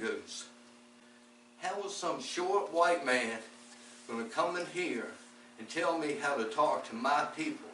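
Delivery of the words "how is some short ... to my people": lightly voiced affronted young man; indignant challenge. Angry young man confronts speaker.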